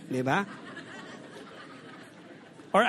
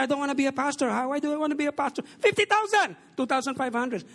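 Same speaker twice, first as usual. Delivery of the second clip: mock indignant protest; 4 semitones higher, faster than usual. Retelling his own protest.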